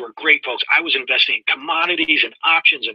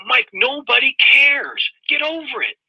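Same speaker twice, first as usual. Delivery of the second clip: stern mentor; 11 semitones higher, slower than usual. Retold or imitated. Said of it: "He said".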